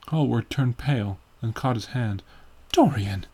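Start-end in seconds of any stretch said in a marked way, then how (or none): 2.7-3.3 mild alarmed exclamation; crying out. A narrator's reading. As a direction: cry out the name, pitched up on the repeat. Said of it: "he cried".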